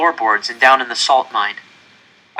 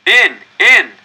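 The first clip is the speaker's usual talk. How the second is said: loud, high shouted command; guards yelling; 8 semitones higher, 10 dB louder than usual. Acted. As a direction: yell it to cram them in. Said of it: "the guards yelled at us".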